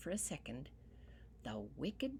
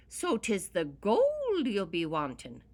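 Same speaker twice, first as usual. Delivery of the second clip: sharply; 3 semitones higher, 10 dB louder than usual. Acted. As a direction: pounce on it sharply. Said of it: "declared the leprechaun sharply".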